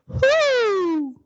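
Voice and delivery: high hoot sliding down; head-voice whoo. Shown as a demonstration. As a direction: model a high falling "whoo". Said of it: "That's your head voice".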